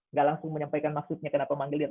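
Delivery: ordinary talk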